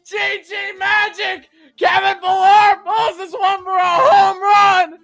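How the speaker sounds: high, slow, drawn-out shouts of joy; ecstatic yelling. Real, not acted. Streamer celebrating the home run with his chat, shouting. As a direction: keep roaring the celebration. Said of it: "I'm sorry for yelling".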